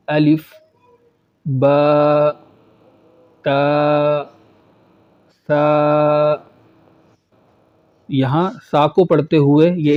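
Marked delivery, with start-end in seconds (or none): 0.1-6.3 الف با تا سا each said alone with Arabic a vowel; model reading. Shown as a demonstration. Teacher reading letters for students to repeat. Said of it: "میں پڑھوں گا اور آپ اسے دہرائیں گے".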